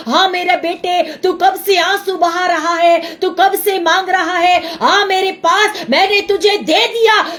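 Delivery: Jesus answering. Pretend. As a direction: answer like a loving Lord. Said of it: "बोलेगा".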